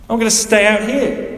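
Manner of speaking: put-on older brother refusing to come in; sulky defiance. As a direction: plant your feet and refuse. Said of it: "He's furious".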